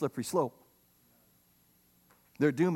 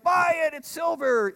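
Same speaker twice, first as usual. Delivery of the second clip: much higher, louder urging; excited buddies; 11 semitones higher, 4 dB louder than usual. Retold or imitated. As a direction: hype up a friend's impulse buy. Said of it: "they're like".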